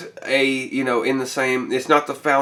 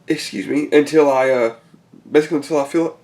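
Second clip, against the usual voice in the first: hiccups. Real, not acted. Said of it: "I'm sorry, I got the hiccups".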